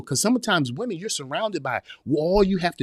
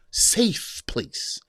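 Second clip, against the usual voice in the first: whispered; 5 semitones higher than usual. Shown as a demonstration. Repeats phrase, first time whispered.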